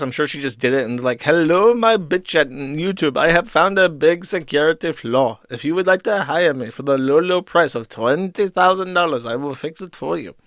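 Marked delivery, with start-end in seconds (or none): 1.2-10.3 mock Indian scammer accent; put-on Indian accent. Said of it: "My Indian accent's getting very good".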